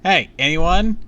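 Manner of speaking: high, loud questioning call; shouted appeal. A narrator's reading. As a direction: call out for anybody to listen. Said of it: "Sabrina shouted".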